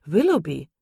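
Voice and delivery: laut und ungläubig: „Willoughby?“; Willoughby? laut hinausgerufen, die Stimme fällt am Ende; überrascht rufend. Acted. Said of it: "rief Sir John". (Sir John hört überrascht den Namen und ruft laut)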